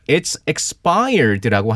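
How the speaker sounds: slow teaching model. Shown as a demonstration. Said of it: "그래서".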